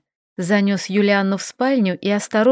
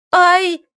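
sudden high yelp; high startled ouch; sharp cry of pain; 9 semitones higher, 4 dB louder than usual. A narrator's reading. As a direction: yelp as the ankle twists. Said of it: "вскрикнула Юлианна".

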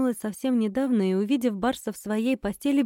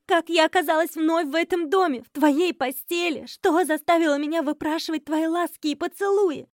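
angry questioning; 7 semitones higher than usual. Acted. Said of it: "перешла на крик".

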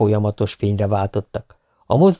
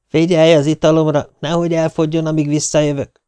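lightly voiced girlfriend; 6 semitones higher than usual. Friend's quick instruction leaving to dance.

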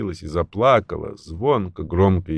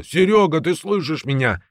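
urgent higher shout to a silent friend; shouting into phone; 9 semitones higher than usual. A narrator's reading. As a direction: shout to get through the phone. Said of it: "кричал в трубку Жила".

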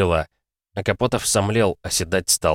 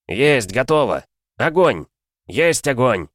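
shouted battle reports; 5 semitones higher, slower than usual. Acted. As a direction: report firing over the noise. Loader and gunner report firing.

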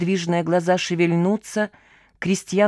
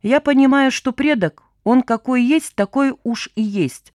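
gloomy grumble; 5 semitones higher, 4 dB louder than usual. Acted. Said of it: "мрачно буркнул Гена".

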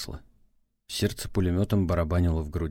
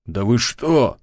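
higher, louder stunned protest; shocked outcry; 4 semitones higher, 7 dB louder, slower than usual. Acted. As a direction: react to the slap in shock. Shocked after being slapped.

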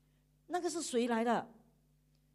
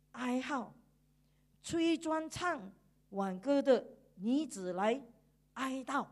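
scripture reading; slower than usual. Acted. Reads scripture slowly aloud.

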